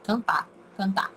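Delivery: "cantar" said as "cantá", no R; dropped final R. Shown as a demonstration. Teacher repeating local speech, dropped final R. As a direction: end "cantar" on a bare stressed vowel. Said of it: "a gente não pronuncia o".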